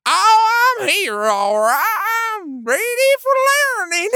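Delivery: high, cackling eager student; laughing. Acted. Eager student cackling at roll call.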